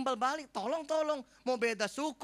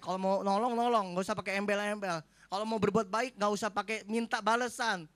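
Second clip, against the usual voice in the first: a touch of a cross wife, louder; wife's mild scolding; 5 dB louder than usual. Retold or imitated. Wife scolding the husband about giving: mild mock rebuke. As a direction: mildly scold him as the wife. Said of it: "ditegur sedikit marah".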